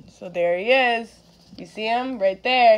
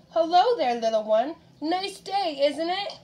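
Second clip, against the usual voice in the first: sly wolf voice; 5 semitones higher than usual. Acted. Wolf greets Red sweetly.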